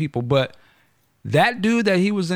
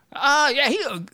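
higher hammed-up good old boy voice; imitating a Klansman; 10 semitones higher than usual. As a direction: mimic a hesitant redneck, pitched up.

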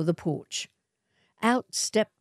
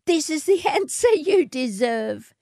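mocking laugh; 11 semitones higher than usual. A narrator's reading. Matilda laughs in the swagman's face, mocking. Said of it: "Matilda laughed in his face".

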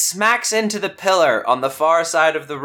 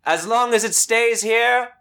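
echoing villain voice; 6 semitones higher than usual. Acted. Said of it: "you hear echo out into the room".

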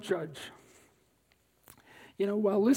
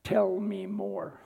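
slow and deliberate; slower than usual. Shown as a demonstration. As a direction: Tell me more, slow and even, each word spaced. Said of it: "The three most important words when listening are".

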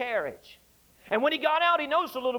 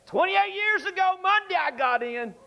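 high, louder joyful exclaim; near shout of joy; 9 semitones higher, 3 dB louder than usual. Real, not acted. Preacher testifying to his conversion, almost shouting. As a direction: burst out in testimony. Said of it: "I just about shouted on that".

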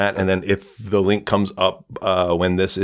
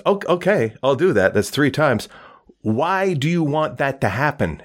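higher-pitched, puzzled questioning; mildly baffled genie; 6 semitones higher than usual. Acted. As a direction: play a genie lightly thrown by the request. Genie baffled by repeated wish.

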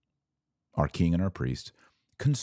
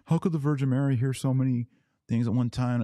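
higher, faster doubting objector voice; mock skeptic; 6 semitones higher, faster than usual. Mocking a doubter who asks how Mary hears so much. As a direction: play the skeptic scoffing at praying to Mary. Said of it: "And people say".

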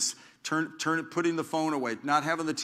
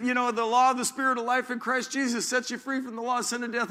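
much higher, bold victorious preaching; triumphant message; 8 semitones higher than usual. Retold or imitated. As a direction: proclaim it like a conquering apostle. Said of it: "His life message was".

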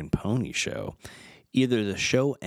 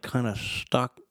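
usual speaking voice

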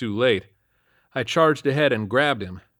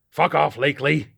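put-on higher, louder bitter old man; shouted; 6 semitones higher, 5 dB louder than usual. A narrator's reading. Homeless man yelling at the cop, louder and higher. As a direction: spit it at him, loud and higher. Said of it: "he shouted".

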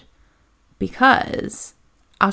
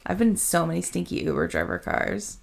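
whispering; 2 semitones lower, 5 dB quieter than usual. Real, not acted. Whispered aside about the rating.

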